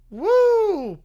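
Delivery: drawn-out, unconvincing cheer; feeble cheer. Pretend. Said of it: "that woo sounds like it needs life support".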